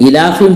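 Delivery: इलाफिहिम with a short first i; common wrong reading. Shown as a demonstration. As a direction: hurry the opening vowel of इलाफिहिम. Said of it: "अलिफ पर जेर पढ़ रहे हैं". (इलाफिहिम में पहली इ छोटी)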